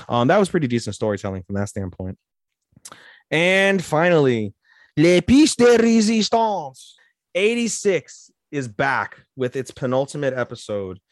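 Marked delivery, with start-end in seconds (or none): 3.3-8.3 high, loud and slow, like a trailer voice; dramatic title announcement. Acted. Vlogger introducing the next anime, grand slow announcer voice.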